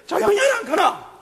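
high, mock-stern Gyeongsang shout; Gyeongsang scolding. Jesus scolding the stormy waves in Gyeongsang dialect. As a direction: tell the sea to hush, Gyeongsang style. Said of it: "말씀에 넣어 이렇게".

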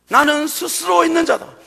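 loud proclamation with weight on 스스로; God's voice. Acted. Preacher repeating God's words to Moses, loud and solemn. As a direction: declare it as the voice of God.

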